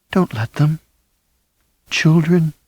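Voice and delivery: dying mother's whispered plea; faint urgent plea. A narrator's reading. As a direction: hold on to the last breath. Dying wife urges husband.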